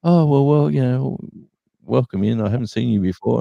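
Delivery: high, friendly cashier voice; lightly voiced sweet checkout lady; second shop lady. Second supermarket cashier greeting a stranger, high and friendly. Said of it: "same sort of scenario".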